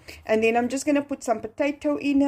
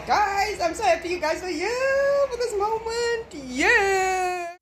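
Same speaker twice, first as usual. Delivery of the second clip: emotional joy; 10 semitones higher, slower than usual. Real, not acted. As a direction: thank them through happy tears. Emotional thanks to viewers.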